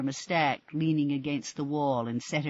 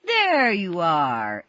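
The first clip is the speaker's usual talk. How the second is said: beaming; 4 semitones higher, 8 dB louder, much slower than usual. A narrator's reading. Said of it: "Alex Gillingham beamed".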